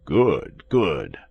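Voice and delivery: calm, falling, well-voiced approval; unruffled cry from behind a door. A narrator's reading. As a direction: call it out calmly, each word falling. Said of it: "cried the calm voice of Athos".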